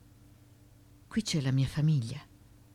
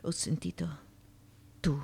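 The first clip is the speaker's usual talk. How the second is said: hushed, breathy question; whisper. Acted. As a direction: whisper so no one hears. Whispered question in dark place.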